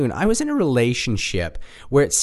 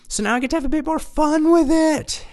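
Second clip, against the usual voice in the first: much higher, cheerful mechanic voice; imitating the mechanic; 3 dB louder than usual. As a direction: play the easygoing mechanic. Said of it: "all that mechanic did was say".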